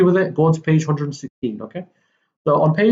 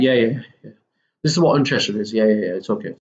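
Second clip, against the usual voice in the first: uninterested; 6 semitones lower, faster than usual. Shown as a demonstration. Teacher demos an uninterested voice, bored and low. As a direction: sound like you couldn't care less. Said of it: "Uninterested is like".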